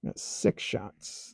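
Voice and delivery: whispered under the breath; whispering. Real, not acted. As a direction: say it in a low whisper. Quiet aside while shooting.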